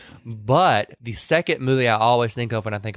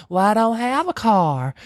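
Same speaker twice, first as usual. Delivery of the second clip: higher, slow shy reply; timid young woman; 9 semitones higher, slower than usual. Retold or imitated. New girl admitting she has no car, shy. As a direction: answer small and shy.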